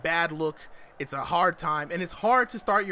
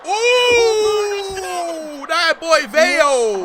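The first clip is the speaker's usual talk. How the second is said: voice cracking; 14 semitones higher, 12 dB louder, much slower than usual. Real, not acted. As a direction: voice cracks high with hype. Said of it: "I just had the biggest voice crack saying that".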